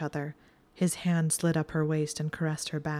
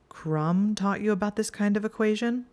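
a hint of jealous edge under the question; lightly edged, guarded question; faint edge; 4 semitones higher than usual. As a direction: let just a trace of suspicion creep in. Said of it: "the faintest edge to his voice".

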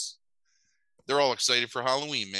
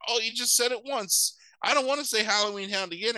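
much higher puppy voice; little kid's voice; 11 semitones higher than usual. Acted. Puppy arguing with the other dogs, high kid voice. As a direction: squeak it like a small child protesting. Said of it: "he's got a little kid's voice".

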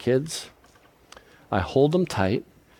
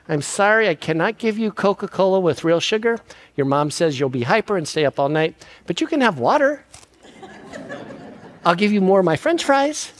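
playful grandpa to grandkid; 5 semitones higher than usual. Retold or imitated. Grandpa voicing himself to grandkid.

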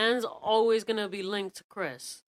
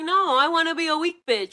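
high, whiny mock voice; whiny weak son voice; 10 semitones higher, 7 dB louder than usual. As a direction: whine it like a spoiled son. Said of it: "And he's like".

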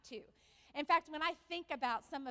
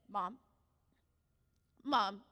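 put-on queasy child; 6 semitones lower, 4 dB louder than usual. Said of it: "Brooklyn starts doing this".

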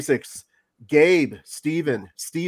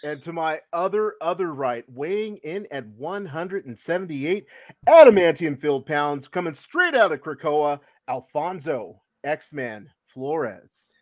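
grand entrance announcement. Acted. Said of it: "That was the best intro ever".

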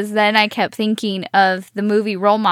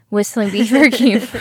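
breaking into laughter mid-phrase; laughing; 5 dB louder than usual. Real, not acted. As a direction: giggle through the words. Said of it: "I can't even get through that part without laughing".

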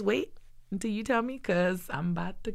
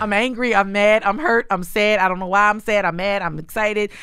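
raised, louder pleading prayer; venting prayer; 2 semitones higher, 5 dB louder than usual. Retold or imitated. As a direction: pour it all out to God, louder. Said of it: "I'll literally say".

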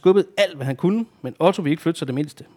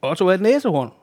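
lightly called, raised pitch; calling out; 5 semitones higher than usual. Acted. Topper answers Sille from the window, calling out. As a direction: call the news down to her. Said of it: "råbte Topper".

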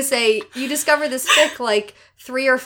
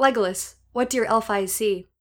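dramatic reading. Shown as a demonstration. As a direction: read it like a grave fantasy line. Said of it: "I can get through this".

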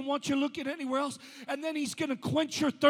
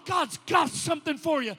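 God's got something for you shouted, louder, with a falling close; shouted refrain; 4 dB louder than usual. Acted. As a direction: cry it out over the congregation.

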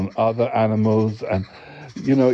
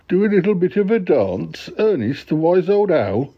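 incredulous echo; 7 semitones higher than usual. Acted. Listener incredulous at owl dancing.

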